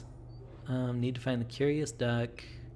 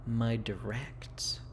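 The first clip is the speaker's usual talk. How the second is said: slow, voiceless whisper; 7 dB quieter, much slower than usual. Real, not acted. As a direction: breathe the words out slowly. Reading app name aloud, hushed.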